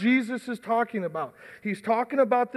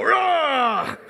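excited shout; 3 semitones higher than usual. Real, not acted. Shouting at the sawing contest.

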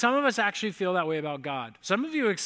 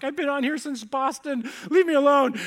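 higher mock outburst building to a loud "leave me alone"; retold defensive retort; 7 semitones higher, 4 dB louder than usual. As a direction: tell them off, raised pitch, ending loud. Snaps back at staring passengers.

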